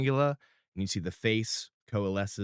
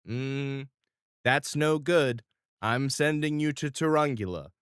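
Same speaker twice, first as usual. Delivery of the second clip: Ralphie's answer; 5 semitones higher than usual. Acted. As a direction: lay down the law. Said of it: "And he goes".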